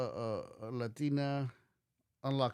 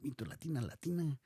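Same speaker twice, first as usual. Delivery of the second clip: a lightly mocking, softer put-on Latina accent; mock exaggerated Latina accent; 4 semitones higher, 3 dB quieter, faster than usual. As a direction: parody the overdone Latina accent, half-joking. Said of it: "they like to exaggerate that, that accent".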